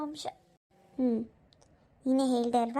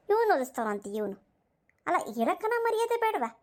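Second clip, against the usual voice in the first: high, scolding cry of disgust; scornful rebuke; 4 semitones higher than usual. Acted. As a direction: shame him, pitched way up. Woman scolds lying husband.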